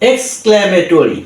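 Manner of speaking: exclamatory said slowly with a fall; slow careful word. Shown as a demonstration. Tutor models English pronunciation for learners, slowly. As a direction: draw out exclamatory, each syllable clear. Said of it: "That means".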